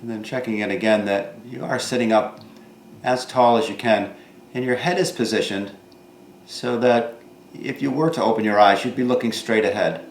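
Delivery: calm instructor voice with long pauses between phrases; guided meditation. Real, not acted. Yoga teacher guiding seated students to notice their bodies, calm guided meditation. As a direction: guide them gently inward, leaving room after each thought.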